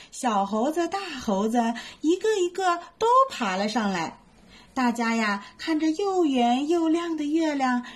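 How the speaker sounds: lively bedtime story reading; storytelling for kids. A narrator's reading. Mom reading a bedtime story to little ones, lively.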